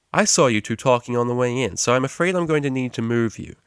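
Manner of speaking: loud, upbeat lecturer greeting the class; cheery tutor. Acted. Tutor Psych introduces himself, loud and chirpy.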